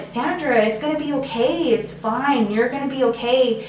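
mildly acted tender reassurance; retold comforting. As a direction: gently reassure a crying friend. Comforting a crying friend.

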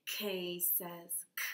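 K says k, slow and clear; slow letter sound. Shown as a demonstration. Teacher modelling the K sound slowly.

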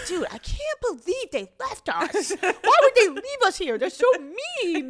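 mock wailing complaint.

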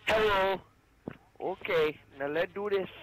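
loud, high put-on Asian accent; caricatured Asian accent at full volume; mock Asian accent.

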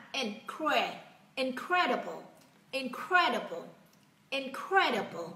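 "Incredible" with a short, lax "In"; short first vowel. Shown as a demonstration. Teacher modelling a word for learners, short-vowel "Incredible". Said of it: "In ngắn nào".

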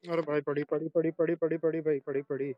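urgent repeated cries; panicking gamer. Real, not acted. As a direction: rattle it off in a panic. Teammate downed, urgent repeats. (घबराया हुआ gamer)

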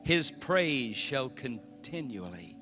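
slow, reverent reading of a psalm; scripture reading. Acted. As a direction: read the verse slowly, lingering on each word. Reads Psalm aloud.

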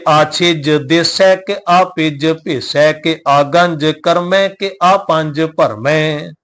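measured, slow path reading; slow scripture recitation. Acted. Teacher reciting Jaap Sahib for the sangat, slow and measured. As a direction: recite each word carefully, slowly.

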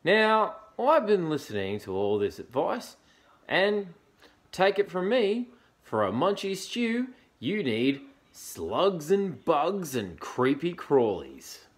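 high, loud, bossy creature voice; bristling echidna. A narrator's reading. Echidna advises Dingo on munchy stew, bristling. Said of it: "he bristled".

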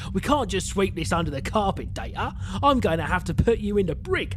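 amateur Cockney, giving orders. Acted. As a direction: have a go at a Cockney officer. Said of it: "He's gonna be a Cockney".

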